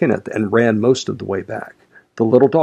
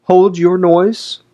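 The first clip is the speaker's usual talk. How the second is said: high, loud, slow rebuke; angry hush; 9 semitones higher, 6 dB louder, much slower than usual. A narrator's reading. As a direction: snap to silence a noisy maid. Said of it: "cried I hastily, enraged".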